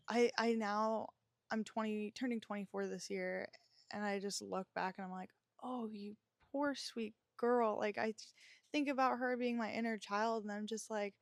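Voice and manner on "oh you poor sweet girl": slow, tender voice to her younger self; tender pity. Retold or imitated. Talking to her younger self after losing her mom, tender and slow. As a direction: soothe the girl she once was.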